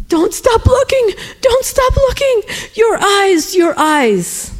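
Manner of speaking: very high, wailing cry; imitated frantic old woman. Old woman suddenly crying out at the praying stranger, frantic plea. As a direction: cry out high, easing down by the end.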